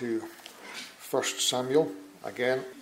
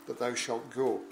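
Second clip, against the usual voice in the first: measured, solemn Bible reading; formal public reading from the pulpit; scripture reading. Acted. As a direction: read the King James text with steady gravity. Reads scripture aloud in church.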